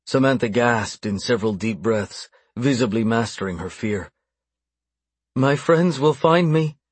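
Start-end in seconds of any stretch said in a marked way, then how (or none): 5.3-6.8 higher-pitched, slow defiance; defiant. A narrator's reading. Bound captive warning her captor, defiant. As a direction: fling it out at the captor, voice raised in pitch. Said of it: "she flung out, defiant".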